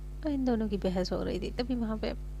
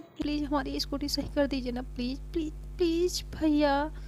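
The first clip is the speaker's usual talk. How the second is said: pleading; 5 semitones higher than usual. Acted. Girl begs the mechanic.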